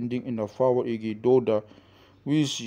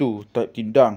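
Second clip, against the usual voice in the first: ordinary talk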